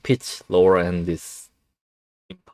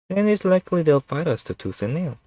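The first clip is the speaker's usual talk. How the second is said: snake voice; 9 semitones higher than usual. Acted. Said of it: "snake voice was really taxing".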